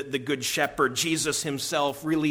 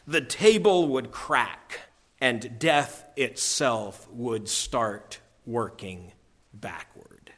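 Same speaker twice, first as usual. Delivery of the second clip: lower, slow and hushed, fading; solemn lion; 3 semitones lower, slower than usual. Acted. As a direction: Aslan explains the deep magic. Aslan's solemn climax.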